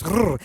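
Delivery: put-on a rolled R trill for kids; rolled R sound. Shown as a demonstration. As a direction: trill the R like a teacher. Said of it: "Try rolling your R's".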